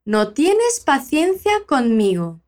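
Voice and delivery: slow, careful line for students to copy; slow teacher model. Shown as a demonstration. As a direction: say it slowly so they can repeat. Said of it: "Fala depois de mim".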